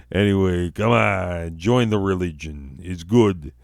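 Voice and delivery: joking put-on Utah accent. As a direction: pitch the religion in a comic Utah accent. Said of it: "that's my Utah accent".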